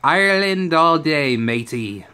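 a bad, hyped-up Irish accent; Irish accent attempt. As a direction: fake an Irish brogue for Conor, not very well. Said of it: "I don't think that was a good accent".

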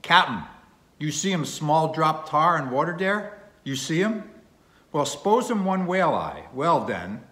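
loud, high shout in broken English; harpooner crying out. A narrator's reading. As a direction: call out boldly as a foreign harpooner. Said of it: "cried out in some such way as this".

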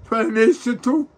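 high, slow wail on tu; high keening sob; sobbing. Real, not acted. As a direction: draw it out in a crying wail. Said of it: "nie płacz mi przy mnie".

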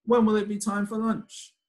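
high, sing-song hungry question; hungry refrain. Acted. Child in the story wondering about lunch, high sing-song voice.

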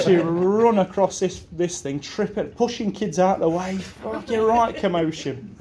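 laughing as it spills out; giggling through the chaos. Real, not acted. Recalling the teacher's dash, laughing. Laughing while telling the story.

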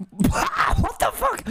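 high, slow, laughed-through exclamation; real amused shock; laughing disbelief. Real, not acted. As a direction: let the laugh carry the words.

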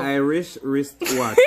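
slow tongue twister through laughter; laughing through a tongue twister; laughing attempt. Real, not acted. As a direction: stumble on it while giggling. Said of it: "Say it fast".

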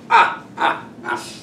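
breathy teasing warning sounds. Real, not acted. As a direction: playfully warn them off. Teacher warns against a mistake.

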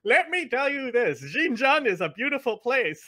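mock official in a put-on Indian accent; Indian stereotype accent. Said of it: "doing an Indian stereotype accent".

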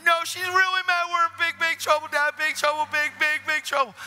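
put-on high, loud alarmed child; acted child panic. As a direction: play a daughter alarmed about Mom. Daughter insists, panicking to dad.

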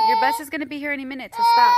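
fast, crying through the words, rising loud on stop; choking up while scolding; teary. Real, not acted. Mom crying before her daughter's first bus ride. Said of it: "I'm very emotional".

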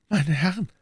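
high, weakened nobleman's voice; wounded duke, courteous. A narrator's reading. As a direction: address them from the sickbed, pitched high. (verwundeter Herzog, höflich)

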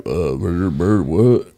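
mock garbled attempt at an English accent; mumbled nonsense as a failed English accent; botched English accent. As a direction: imitate a hopelessly bad English accent. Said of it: "you could tell him do an English accent".

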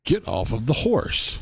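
spoken up, still airy and cracking. Acted. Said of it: "it's still coming through airy".

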